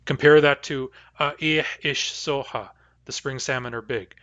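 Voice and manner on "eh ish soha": Eh ish soha, the vowel of ish kept short; Nuu-chah-nulth phrase. Shown as a demonstration. Teacher contrasting Eh ish soha with its short ish. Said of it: "the vowel of ish is short".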